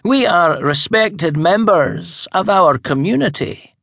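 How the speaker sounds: high, prim and superior; haughty. Acted. Grand High Witch putting the old witch in her place, haughty. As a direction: look down your nose at her. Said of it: "the Grand High Witch said haughtily".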